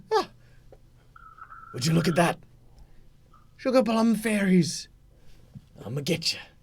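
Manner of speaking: dazed, groggy, babbling, knocked-silly creature voice. Voicing a red cap who was just knocked senseless: dazed red cap voice. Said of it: "he sort of looks up and he says".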